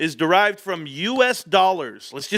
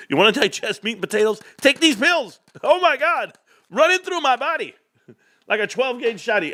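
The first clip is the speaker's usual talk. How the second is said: laughing pitch; 7 semitones higher than usual. Real, not acted.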